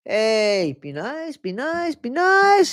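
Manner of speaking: rising playful scold. Pretend. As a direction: scold them playfully, building up.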